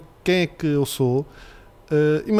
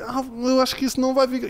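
put-on much higher, fretting child voice; worried little girl; 9 semitones higher than usual. Daughter fretting over dad's baking, high worried child voice. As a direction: whine that it won't turn out. Daughter quoted, doubting the cake.

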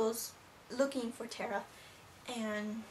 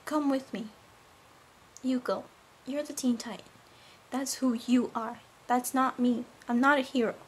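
raised, emphatic dramatic dialogue; acted argument; 6 dB louder than usual. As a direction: act out a firm refusal, projecting. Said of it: "I'll show you how it went".

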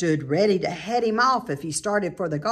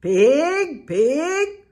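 kind voice; 8 semitones higher, 7 dB louder than usual. A narrator's reading. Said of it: "in a kind voice".

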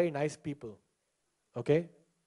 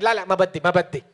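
mock Lebanese refusal; 6 dB louder, faster than usual. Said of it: "she's like".

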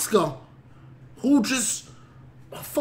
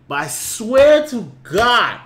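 emphatic; 2 semitones higher, 6 dB louder, much slower than usual. Real, not acted. Ranting about immigration officers.

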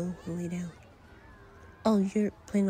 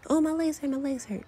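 higher-pitched mock whine; mock whining; 6 semitones higher than usual. Teasing a friend by imitating their whining over sore legs. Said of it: "kept whining, saying".

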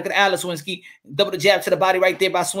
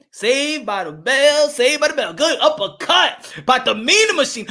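high, stretched-out round-ending call; excited fight call; 4 semitones higher than usual. Real, not acted. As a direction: sing out the call over the bell. Round ends after the knockdown.

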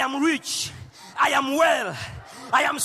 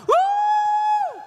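very high excited whoop; joyful whoop; 7 dB louder than usual. Real, not acted. Preacher whooping joyfully at the crowd, high whoop. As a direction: let out a happy whoop. Joyful shout after laughter.

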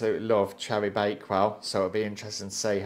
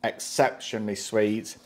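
speaking with food in mouth; words slightly mumbled by chewing; talking while chewing. Real, not acted. Seen 1: man bit food earlier, holds it, mouth busy while speaking.

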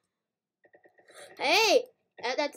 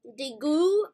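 fake French; 4 dB louder, much slower than usual. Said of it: "I'm speaking fake French".

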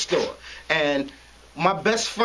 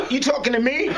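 higher, defiant shouted challenge; challenging shout; 4 semitones higher than usual. Retold or imitated. Narrator shouts back at the cop, defiant and raised.

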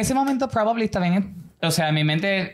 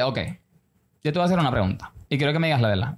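a hint of a stern dad, lower; serious father; 5 semitones lower, faster than usual. Father about to question his son, serious. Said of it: "pero él es más serio".

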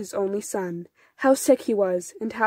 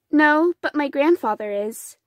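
put-on young boy; 5 semitones higher, 3 dB louder than usual. A narrator's reading. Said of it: "answered Pavel".

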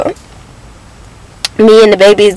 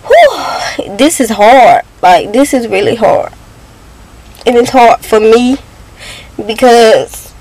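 holding back tears; 3 semitones higher than usual. Real, not acted. To her viewers about missing the kids' dad, close to tears. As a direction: voice rising and catching, fighting off crying. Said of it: "I wanna cry".

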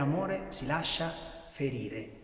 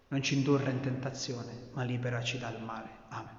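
recited prayer; 4 dB louder than usual. Acted. Congregation prays the Our Father together, steady recitation. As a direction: recite it plainly and devoutly.

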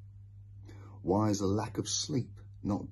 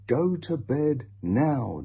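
demanding; 6 semitones higher, 7 dB louder, slower than usual. A narrator's reading. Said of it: "demanded Mother".

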